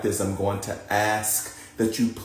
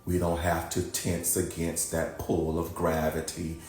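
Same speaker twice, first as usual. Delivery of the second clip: calm, softer guiding voice with long pauses; guided meditation; 8 dB quieter than usual. Acted. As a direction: ease them down into rest, unhurried.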